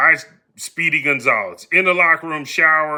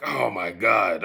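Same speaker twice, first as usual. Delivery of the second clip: low, soft weary oh my God; exasperated groan; 7 semitones lower, 5 dB quieter, slower than usual. Retold or imitated. Dreading the manager's office, a low weary groan. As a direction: sink into resigned dread.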